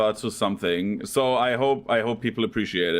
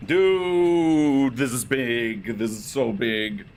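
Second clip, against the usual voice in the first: awed relief; much slower than usual. Real, not acted. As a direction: savor the win slowly. Awe after escaping.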